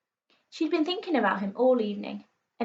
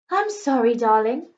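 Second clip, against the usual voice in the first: louder apologetic protest; 5 dB louder than usual. A narrator's reading. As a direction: protest mildly as a husband under fire. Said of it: "protested Dad".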